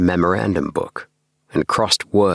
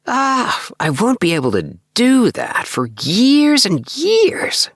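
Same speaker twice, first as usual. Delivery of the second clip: put-on young clerk, higher voice, weary of routine; a bored young man venting his drudgery; lifted voice of a disillusioned clerk; Appleby's voice; 3 dB louder, slower than usual. Appleby explaining his plan.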